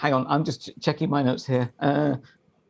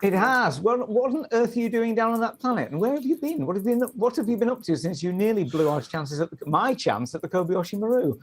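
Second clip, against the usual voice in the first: commander role voice; 6 semitones higher than usual. Acted. Old rival confronting Eric.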